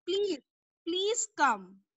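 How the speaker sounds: pleading. Acted. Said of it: "she again requested".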